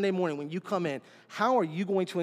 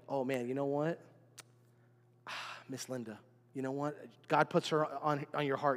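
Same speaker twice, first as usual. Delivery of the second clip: much softer, lower, with a sigh, mock inner thought; quiet reflective musing; 5 semitones lower, 7 dB quieter than usual. Pastor voicing a congregant thinking of Miss Linda, soft and low. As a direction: muse softly to yourself, sighing.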